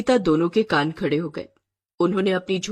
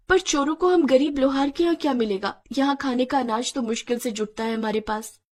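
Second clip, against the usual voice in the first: slightly higher, anxious wife character; lightly voiced worried wife; worried poor wife; 4 semitones higher than usual. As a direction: voice a puzzled village wife fretting.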